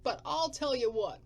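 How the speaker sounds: loud, rough wasteland drifter; gruff drifter. Acted. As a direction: bark it like a grumpy survivor.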